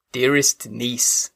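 slow, fatherly comfort; old father voice. Acted. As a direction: soothe her slowly like an old father. Father comforts weeping niece.

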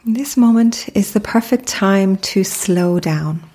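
calm, unhurried meditation guide with long pauses; measured, soothing mindfulness narration; guided meditation. Acted. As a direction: lead the listener gently into stillness, pausing between phrases.

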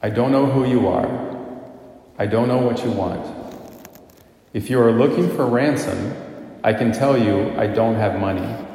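lightly voiced movie-hero threat, measured and deliberate; understated Taken phone threat. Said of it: "I won't be able to make the delivery as well as he does".

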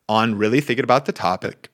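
words cut by a burp. Real, not acted. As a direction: burp slips out mid-sentence. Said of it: "Excuse me".

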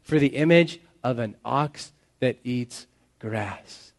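slow, dry, deliberate sarcasm; deadpan, drawn-out reading with pauses; sarcastic. Acted. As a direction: spell out the absurdity, word by word. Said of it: "can you hear the sarcasm there".

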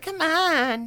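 put-on high, coaxing girlfriend voice; urging him along; girlfriend impression. Girlfriend begging Mike to see the meteor, high. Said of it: "She's like".

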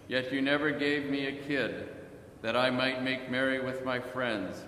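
measured, evenly pitched gospel reading; scripture reading. A narrator's reading. Reading the parable to the congregation, measured proclamation. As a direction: read solemnly, letting each phrase fall at its end.

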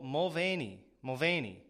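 "Mulvaney" as mul-VAY-nee; American pronunciation. Shown as a demonstration. Host practises the corrected name, "Mulvaney" as mul-VAY-nee. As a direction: repeat "Mulvaney" with a long stressed VAY. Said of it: "that's how we say it here in America".

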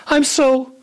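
slow, high, halting amazement; shocked wonder. Acted. Teacup sees itself in the mirror, slow shocked wonder. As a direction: draw it out in astonished disbelief. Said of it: "I was shocked".

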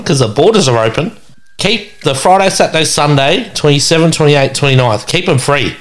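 announcement. Real, not acted. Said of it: "announcing to listeners".

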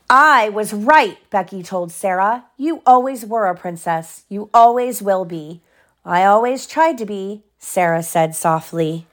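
measured bedtime-story telling; story narration. A narrator's reading. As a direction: clear storybook reading. Reads story to child.

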